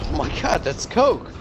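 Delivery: a mock gasp of delight at the discovery; amazed. Bar patron marvels to the bartender, mock amazed.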